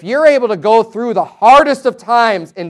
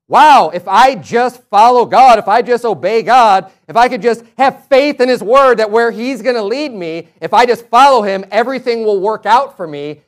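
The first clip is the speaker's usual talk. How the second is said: amazed realization; 4 dB louder than usual. Retold or imitated. Imagined believer's realization.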